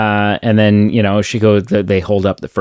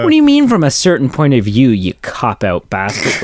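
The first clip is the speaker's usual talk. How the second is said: fast, higher mock indignation; indignant Luke; 3 semitones higher than usual. Fan voicing Luke demanding answers, fast mock indignation. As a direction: demand it quickly, half outraged. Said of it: "And Luke's like".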